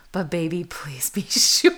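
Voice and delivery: breathy closing whisper. Real, not acted. Singer pleading with a lover at the song's end, whispered. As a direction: whisper the plea.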